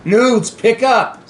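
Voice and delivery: slow loud call into the phone. Real, not acted. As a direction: draw out the plea. Calling to the answering phone.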